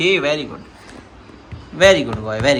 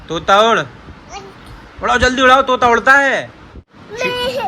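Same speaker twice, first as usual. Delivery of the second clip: game calls; 3 semitones higher than usual. Pretend. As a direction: call out each bird like a game leader. Playing bird-fly game with kids. (बच्चों के खेल में ज़ोर से पुकारना)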